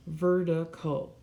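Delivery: "vertical" slowly, in three beats; syllable by syllable. Shown as a demonstration. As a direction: sound out "vertical" one syllable at a time. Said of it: "that's three syllables".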